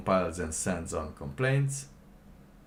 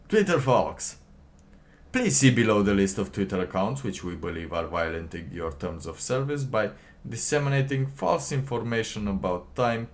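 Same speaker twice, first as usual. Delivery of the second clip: louder, stiff official reading; mock official read; 4 dB louder than usual. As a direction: read it like a pompous bureaucrat. Reading FBI email aloud.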